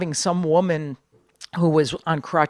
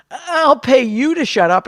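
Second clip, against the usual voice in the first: heckler's sneer; 8 semitones higher, 5 dB louder, slower than usual. Retold or imitated. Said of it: "And he goes".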